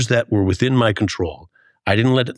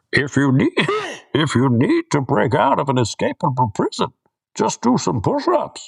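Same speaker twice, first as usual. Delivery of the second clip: put-on English accent, pitched higher; 5 semitones higher than usual. Joking as the reader in an English accent: Tom Hardy impression. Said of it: "Try with an English accent".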